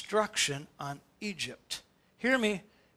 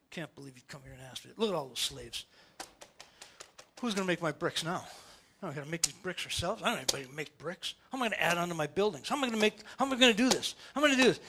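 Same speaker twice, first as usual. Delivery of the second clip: low, soft, fast grumbling; stewing Pharaoh; 5 semitones lower, 7 dB quieter, faster than usual. Retold or imitated. Pharaoh sulking about lost slaves, low muttered grumble. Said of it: "he's stewing".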